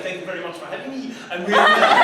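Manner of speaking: English with a fake French accent, quickly; mock French accent, hamming it up at the end. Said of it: "I just spoke English in a French accent".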